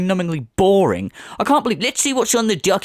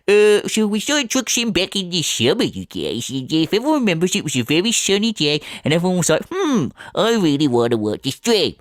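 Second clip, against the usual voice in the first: mimicking streamer. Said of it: "You have to go".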